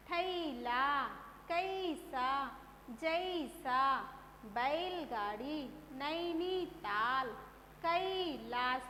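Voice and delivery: थैला, कैसा, जैसा one by one, weight on the first syllable; carefully sounded-out कैलाश with a full ai glide; stressed ai syllable. Shown as a demonstration. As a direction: lean on the ai in बैलगाड़ी, नैनीताल. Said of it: "जोर दे के उच्चारण किया".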